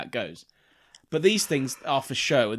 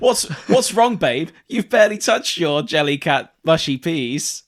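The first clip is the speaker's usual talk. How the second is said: mock concerned partner; 4 semitones higher, 7 dB louder than usual.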